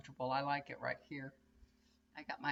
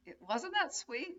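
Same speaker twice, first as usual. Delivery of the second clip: pleading; 11 semitones higher than usual. Retold or imitated. Retold plea to husband.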